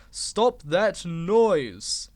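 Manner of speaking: loud slow bellow. Acted. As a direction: bellow at the engines to stop. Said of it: "he bellowed".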